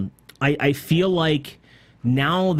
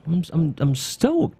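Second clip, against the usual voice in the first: stoked, with a touch of excitement; genuinely keyed up but contained; excited; 3 semitones higher, slower than usual. Real, not acted. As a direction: let mild excitement come through. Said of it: "you can hear the excitement in my voice".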